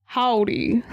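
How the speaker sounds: a mock cowboy American howdy; American accent. Shown as a demonstration. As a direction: drawl it like a Texan. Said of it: "now let me try American".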